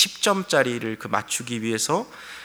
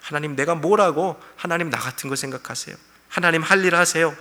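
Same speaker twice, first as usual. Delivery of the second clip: sarcastic. Retold or imitated. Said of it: "하나님 앞에 비꼬며 말하는 거죠".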